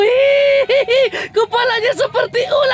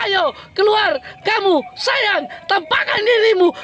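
coaxing call. Real, not acted. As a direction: draw the words out, luring a shy pet. Coaxing crab out of shell.

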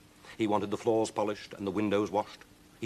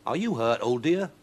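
raised, lilting concern; concerned stranger; 5 semitones higher, 5 dB louder than usual. Acted. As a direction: ask after her, voice lifted. Stranger asks after witch.

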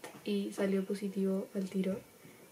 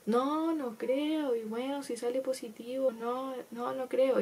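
higher, very slow mom in denial; doubting mom; 4 semitones higher, slower than usual. Retold or imitated. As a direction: drag it out, unconvinced. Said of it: "mi mamá empezó como". (mamá incrédula, lenta y más aguda)

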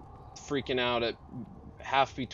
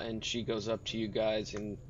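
ordinary talk

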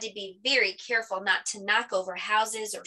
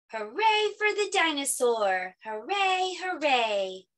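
put-on children cheering; 6 semitones higher, slower than usual. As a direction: cheer that starts high and settles down. Children keep cheering the winner.

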